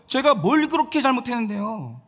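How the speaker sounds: mildly angry, indignant protest; acted anger. Sarai protesting her innocence to her husband, mild acted anger. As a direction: imitate a wife demanding what she did wrong. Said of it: "이렇게 막 화를 내는 거죠".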